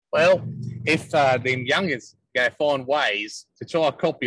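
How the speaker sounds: hammed-up Kiwi accent; a loose Kiwi accent mocking the censors; bad Kiwi accent. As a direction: lay on a rough, jokey Kiwi accent. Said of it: "Is that a bad Kiwi dialect?".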